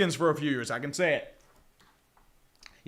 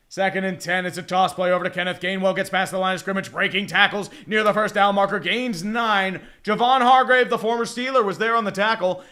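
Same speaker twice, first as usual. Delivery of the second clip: play-by-play. Acted. Commentator calling Gainwell's run for listeners, rising play-by-play. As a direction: drive the run call forward as tackles break. Calls the game live.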